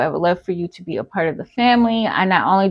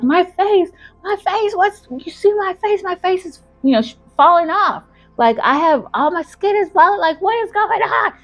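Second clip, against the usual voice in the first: high, frantic imitation of a girl; acted panic; 11 semitones higher than usual. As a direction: wail in mock horror. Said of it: "and panicking".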